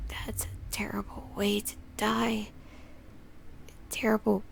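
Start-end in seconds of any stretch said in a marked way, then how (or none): 0.1-2.5 whispering. Real, not acted. Shocked reaction to death scene.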